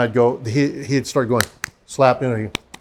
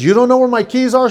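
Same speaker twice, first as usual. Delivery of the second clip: higher, louder, teasing; mock surprise; 8 semitones higher, 4 dB louder than usual. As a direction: act shocked for fun. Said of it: "And I says".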